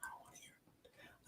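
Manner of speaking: hushed, pleading whisper; shushing whisper. Retold or imitated. Whispering to his wife to stop her college story. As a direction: beg her softly to stop telling it. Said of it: "I try to tell her to".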